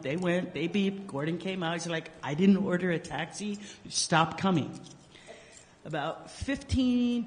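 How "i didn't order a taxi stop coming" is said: mild mock irritation on "I didn't order a taxi"; a touch of a fed-up neighbour; annoyed. Gordon to the returning taxi, mildly annoyed.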